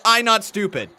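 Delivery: imitating Braun. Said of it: "trying to show tonight that".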